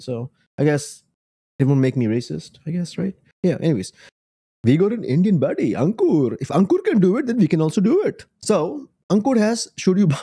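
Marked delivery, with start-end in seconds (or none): 4.6-10.2 playful, put-on Indian accent; mock Indian accent. Vlogger introducing an Indian fellow creator, mock Indian accent. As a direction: lean into a teasing Indian accent. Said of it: "why am I talking like this?".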